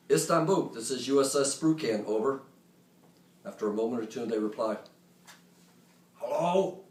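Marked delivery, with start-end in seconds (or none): 0.1-2.4 clear radio call. Retold or imitated. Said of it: "speak clearly and loudly into the handset". 6.2-6.8 put-on Arabic accent. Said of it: "in a heavy Arabic accent".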